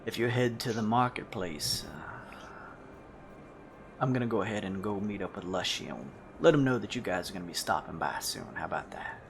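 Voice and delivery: low, hushed character voice; Zedbane. Acted. Zedbane telling the party his plan, low quiet voice. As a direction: keep it low and understated, trailing softly. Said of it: "Zedbane turns to you guys and says".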